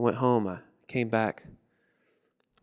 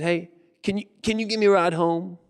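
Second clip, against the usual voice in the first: higher character voice, halting start; hesitant request; 6 semitones higher than usual. Acted. George asks for a ride home, hesitant higher voice. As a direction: ask tentatively in a put-on higher voice.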